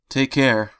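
shouting. Acted. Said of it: "he shouted".

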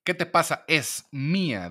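wife outraged the husband wants the truck back; indignant wife. Retold or imitated. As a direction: defend what's hers in outrage. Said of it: "dice la mujer".

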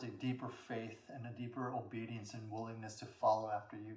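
subdued, low-key congregational prayer; leading prayer. Real, not acted. Can we bow our heads in prayer.

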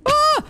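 sudden high scared yelp; startled scream. Real, not acted. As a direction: shriek in fright. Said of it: "That was really scary".

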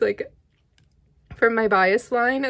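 ordinary talk

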